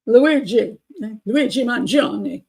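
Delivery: drawn-out, hammed-up Italian accent; bad Italian accent. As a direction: say the name like a fake Italian, stretched out. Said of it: "with a really bad Italian accent".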